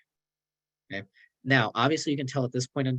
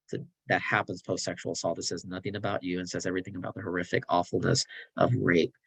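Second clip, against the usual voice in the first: calm therapist; 4 semitones lower than usual. Acted. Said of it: "Jody ... says the following".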